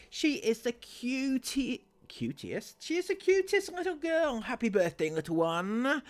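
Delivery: drip with fake adoration; gushing fan. Reading the last comment as a cooing stranger.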